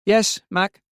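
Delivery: put-on high child's voice, a touch afraid; bewildered, frightened. A narrator's reading. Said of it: "She sounded bewildered, even frightened".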